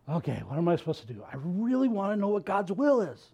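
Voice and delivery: a mildly exasperated plea to God; frustrated prayer. Retold or imitated. Preacher acting out a believer's frustrated prayer, mild exasperation. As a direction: sound a little fed up, asking sincerely. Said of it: "in that moment of frustration going".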